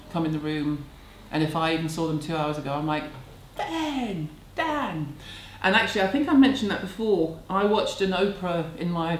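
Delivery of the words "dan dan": high, delighted calling of a name; light up and sing out the name; excited greeting. Retold or imitated. Greeting her grown son at the door, high and delighted.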